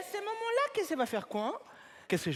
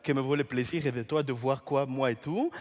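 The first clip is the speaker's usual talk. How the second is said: gallant greeting; 8 semitones lower than usual. Retold or imitated. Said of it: "J'ai dit".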